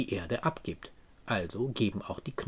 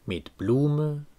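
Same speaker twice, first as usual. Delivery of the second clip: slow, measured poetry reading with deliberate pauses; poem recitation; slower than usual. Acted. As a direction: recite the verse slowly, weighting key words. (getragener, langsamer Gedichtvortrag)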